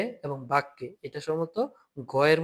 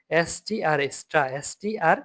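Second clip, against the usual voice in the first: slow spelling demo; slower than usual. Shown as a demonstration. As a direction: spell স্ট্রা letter by letter slowly. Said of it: "ইংলিশের মতো লাগতেছে না". (ধীরে ধীরে স্ট্রা বানান)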